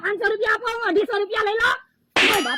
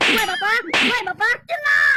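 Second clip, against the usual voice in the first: pained shout; 3 semitones higher, 3 dB louder than usual. Acted. Beaten, calling truce.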